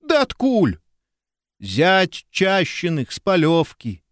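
high-pitched howl of alarm; a villager howls in panic at the news. A narrator's reading. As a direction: wail it out in fright. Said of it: "взвыл Венька".

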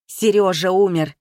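loud anguished outcry; shocked shout of a death. Acted. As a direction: blurt the news in a shout. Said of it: "закричал незнакомец".

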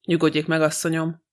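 ordinary delivery, nothing marked

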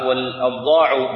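"والأبضاع" with an a vowel after the article, abḍāʿ; fatha on the hamza. Shown as a demonstration. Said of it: "بالفتح".

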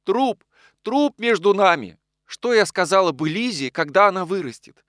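high, loud despairing cry; anguished outcry. A narrator's reading. Anna refuses Nikolai because of the dead man, despairing cry.

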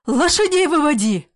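a grandmother ordering the horses out; coughing shout. A narrator's reading. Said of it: "хрипя, кашляя, кричала она".

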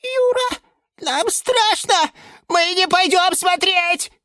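high, whimpering fearful plea; frightened cry. A narrator's reading. The ficuses cry to Yura that they are scared, whimpering. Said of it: "закричали в один голос".

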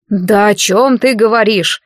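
plain reading voice

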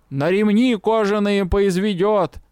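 slow, drawn-out crone yell; old crone yelling. A narrator's reading. Old crone yelling at the crowd, slow drawn-out cry. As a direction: bellow it like a desperate old hag. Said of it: "заорала старуха".

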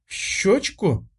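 slow, halting, stuttered question; girl stammering back at her mother in confusion. Acted. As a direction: stumble over the words in embarrassment. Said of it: "заикаясь".

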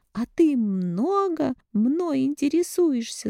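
slow, high, spiteful sneer; spiteful retort. A narrator's reading. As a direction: sneer back at her mother. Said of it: "злобно ответила Алина".

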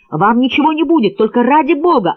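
high, urgent stop command; man begging a woman to stop, shouting; shouted plea. A narrator's reading. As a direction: yell at her to stop. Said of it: "крикнул он".

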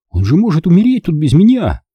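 put-on high, loud, desperate boy; distraught child's loud protest; shouting. A narrator's reading. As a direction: cry out in a high, pleading shout. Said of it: "кричал он".

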